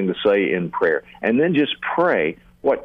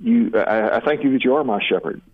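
spoken prayer; 2 semitones lower than usual. Shown as a demonstration. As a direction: pray it sincerely, as if alone with God. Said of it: "you talk to God about whatever comes to mind".

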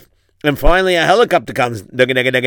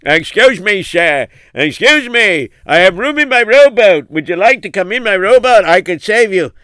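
rowboat rescuer calling out; 4 semitones higher, 4 dB louder than usual. Acted. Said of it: "The man said".

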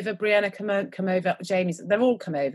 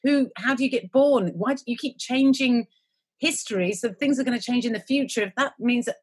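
higher-pitched string of baffled questions; mock incredulity; 4 semitones higher than usual. Imagining the reaction nobody gives, mock incredulous. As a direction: argue through the impossibility, piling up objections.

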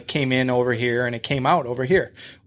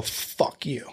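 hushed, breathy fuck you; whispered curse; 9 dB quieter than usual. Retold or imitated. To Rick in the small office, whispered curse. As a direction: whisper it under your breath.

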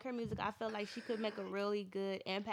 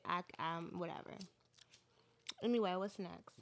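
mouth full; 5 semitones lower, 3 dB quieter than usual. Real, not acted. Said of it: "I'm eating Skittles".

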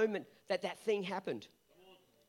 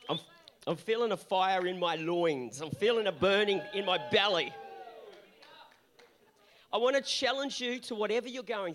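fired-up build to shout. Real, not acted. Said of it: "I feel a bit fired up".

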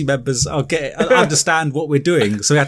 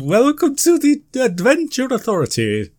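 higher, formal news presenter; newsreader voice; 7 semitones higher than usual. Pretend. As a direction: read it like the evening news. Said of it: "this is my newsreader voice".

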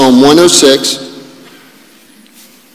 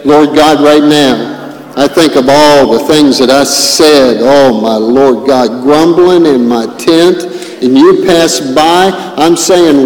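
fervent prayer; 2 semitones higher, 4 dB louder than usual. Real, not acted. Leads a repentance prayer aloud.

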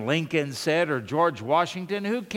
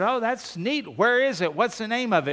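mildly excited, higher-pitched questions; 5 semitones higher than usual. Acted. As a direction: play an eager friend asking for details. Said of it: "the other guy gets excited".

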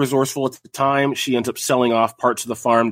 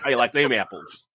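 put-on mild Southern accent; lightly put-on Southern voice; 3 semitones higher than usual. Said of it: "That was a good accent".

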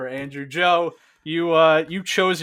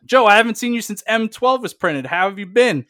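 tree folk voice; 6 semitones higher, 5 dB louder than usual. Acted. Tree folk greets Joe.

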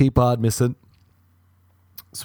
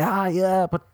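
sheepish self; 9 semitones higher than usual. Pretend. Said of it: "And you'll be like".

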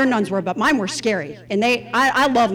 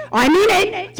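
stern nun; 3 semitones higher, 3 dB louder than usual. Retold or imitated. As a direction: lay down his calling like a strict nun. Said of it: "like, stern".

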